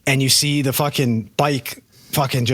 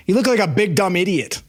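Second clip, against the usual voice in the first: lightly voiced small child, slightly higher; a hint of a kid chirping from the back seat; little kid's voice; 4 semitones higher than usual. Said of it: "this little voice pops up".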